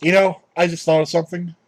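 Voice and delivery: talking around a cigarette; cigarette in mouth. Real, not acted. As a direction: lit cigarette at the lips. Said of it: "let me light this cigarette".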